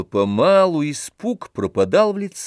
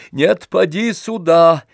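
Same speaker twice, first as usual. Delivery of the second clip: loud, higher call; 6 semitones higher, 5 dB louder than usual. A narrator's reading. Oblomov calling Zakhar back, loud and bold. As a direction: call him in boldly. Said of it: "громко сказал он".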